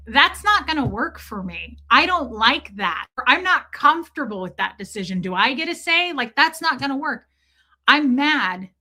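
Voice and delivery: heated retelling of an argument; retold anger. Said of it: "I'm pissed about that".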